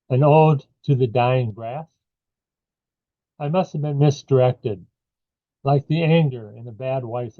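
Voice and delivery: measured recital, pausing after each line; poetry reading. Acted. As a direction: read the poem line by line, lifting the questions. Reads second poem aloud.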